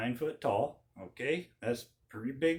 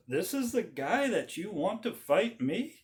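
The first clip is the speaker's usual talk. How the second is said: insulted giant; 3 semitones higher than usual. Retold or imitated. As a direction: sneer at the tiny challenger. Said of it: "this giant says".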